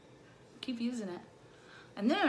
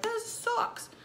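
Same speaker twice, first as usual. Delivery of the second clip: mock frustrated viewer; 12 semitones higher than usual. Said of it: "you're like".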